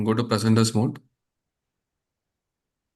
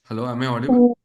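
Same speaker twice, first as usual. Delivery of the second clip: muffled voice, as if covered; faster than usual. Real, not acted. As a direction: speak through a covered mouth, muffled. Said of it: "Your voice is a bit muffled".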